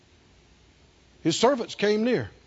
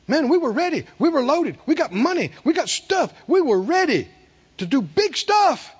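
eager servants; 5 semitones higher than usual. Acted. Servants boasting readiness.

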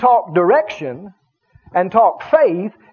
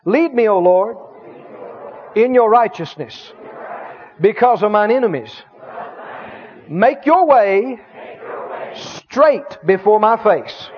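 phrase-by-phrase prayer with long pauses for repeating; praying in faith. Shown as a demonstration. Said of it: "You pray this in faith right now".

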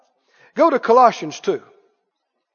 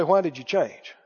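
congregation echo; 8 semitones lower, 7 dB quieter than usual. Shown as a demonstration. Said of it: "Somebody say".

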